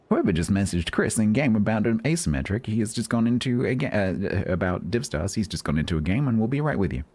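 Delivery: lightly voiced airport announcer; tannoy announcer. Mock announcement over the tannoy.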